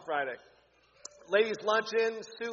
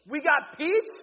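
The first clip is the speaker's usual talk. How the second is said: higher and louder, selling it; excited repeat; 9 semitones higher, 8 dB louder, slower than usual. Real, not acted. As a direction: hype up the peach flavor. Repeats flavor, pumped up.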